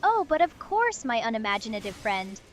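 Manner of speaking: snobby English take on French; posh fake French, looking down at you; French accent. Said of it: "snobby French person, but do, like, an English person doing a French accent".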